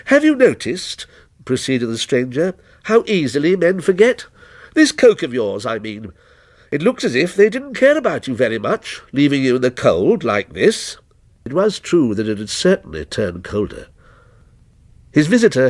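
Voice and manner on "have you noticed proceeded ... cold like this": lightly voiced stranger, detached and ominous; stranger's voice. Lightly voiced stranger answering the night watchman, a touch aloof.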